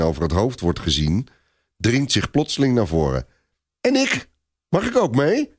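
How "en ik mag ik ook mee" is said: put-on high, timid child voice; small, hopeful high-voiced question; shy little boy. A narrator's reading. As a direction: ask shyly, pitched right up like a small boy. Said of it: "vraagt hij verlegen".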